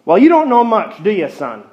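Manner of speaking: put-on fed-up sneer at the kid; frustrated. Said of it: "said the frustrated businessman".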